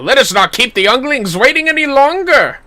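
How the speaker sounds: stately, commanding delivery; lightly voiced noble hero; announcing the bout to the children; formal NPC voice. Voicing NPC dialogue.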